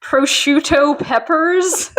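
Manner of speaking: put-on slow, barely-there Italian accent; a half-hearted Italian accent; flat fake Italian. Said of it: "Mike does not do an Italian accent".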